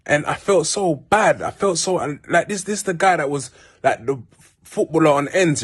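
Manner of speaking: real emotion pushing the pitch up, slowing; choked up, emotional. Real, not acted. Remembering a friend lost to drugs, choked up. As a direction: voice rising as tears come. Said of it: "sorry that I got emotional".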